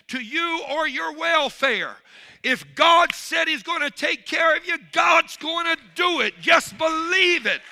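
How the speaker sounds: high, loud shouted exhortation; preaching at full force. Acted. Preacher rallying his congregation to trust God, shouting. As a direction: rouse them to believe.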